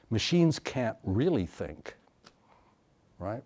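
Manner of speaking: slow, dismissive recital of Machines can't really think; mocking a cliche. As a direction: parrot the stock line, slow. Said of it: "the same mechanical repetition of a cliche".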